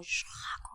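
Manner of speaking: soft, voiceless rushing 샤그; roaring breath word. Acted. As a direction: breathe out 샤그 as a long rush. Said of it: "그냥 말하는 게 아니에요". (숨으로 내뿜는 샤그)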